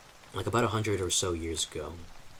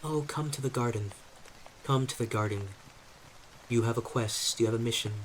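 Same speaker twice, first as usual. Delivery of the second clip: higher-pitched beckoning woman's voice, lightly acted; lightly voiced mystical summons to a quest; voice in head; 4 semitones higher, faster than usual. A woman's voice calls the player psychically to the garden, lightly voiced beckoning. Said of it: "you hear the voice saying".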